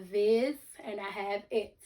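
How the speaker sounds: "viz" and "it" each set apart; syllable by syllable. Shown as a demonstration. Teacher breaking visit for pupils, syllable by syllable. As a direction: sound out "viz", then "it", as separate pieces. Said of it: "break visit into syllables".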